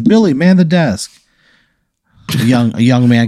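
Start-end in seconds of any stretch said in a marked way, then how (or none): 0.0-1.1 high-pitched, showy man in charge; put-on genial boss voice; booming problem-solver. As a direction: sweep in and take command, pitched way up. Same figure gives an order.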